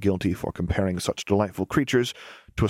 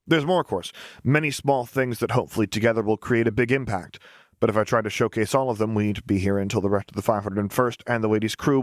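put-on cheerful young engineer. The speaker jokes during presentation.

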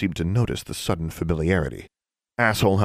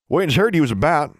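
Burton's voice; 9 semitones higher, 5 dB louder than usual. A narrator's reading. Burton's Ozark drawl voiced.

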